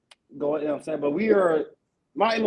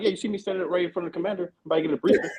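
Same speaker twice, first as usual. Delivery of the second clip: annoyed answer to a dumb question, sharp rise on the end; exasperated retort; 3 semitones higher, faster than usual. Retold or imitated. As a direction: snap back like it's obvious. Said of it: "I'm like".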